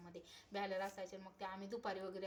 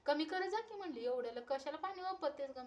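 retold scolding; 5 semitones higher than usual. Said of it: "मला ओरडले की".

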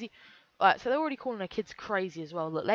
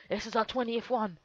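put-on voice, slowing to a drawn-out finish; lightly hammed-up greedy parent voice; mock channel parents; slower than usual. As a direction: mockingly imitate merch-hungry parents. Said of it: "I bet they're gonna keep pumping out babies".

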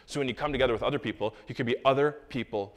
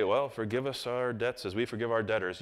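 rote recital; 2 semitones lower, 4 dB quieter than usual. Pretend. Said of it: "not good enough to say".

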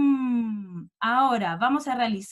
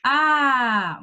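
cheerful shout; 6 dB louder than usual. Real, not acted. Teacher cheering on pupils.

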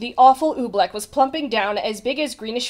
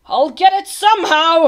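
high, loud determined yell; 7 semitones higher, 9 dB louder than usual. A narrator's reading. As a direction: yell it with stubborn resolve. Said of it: "he yelled".

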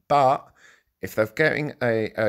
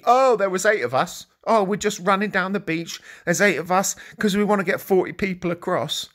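mocking whiny migrant; 5 semitones higher than usual. Vlogger parodying the migrants' story to viewers, in a mocking higher whine. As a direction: scoff at the excuse by parroting it in a silly voice.

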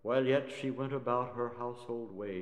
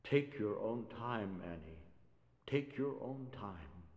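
shaking voice; 3 semitones lower, 6 dB quieter than usual. Acted. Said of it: "his voice shaking a little".

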